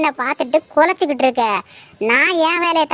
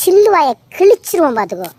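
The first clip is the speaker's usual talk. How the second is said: loud, fast threat; angry threat; 3 dB louder, much faster than usual. Acted. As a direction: snap the threat at her. Threat in a quarrel. (கோபமான மிரட்டல்)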